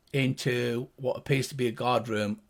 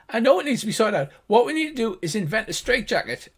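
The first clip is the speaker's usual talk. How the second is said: higher, quick-starting arguing gnome; high-pitched gnomish voice; 7 semitones higher, 4 dB louder, faster than usual. Acted. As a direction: argue back as a little gnome. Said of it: "the two high-pitched gnomish voices".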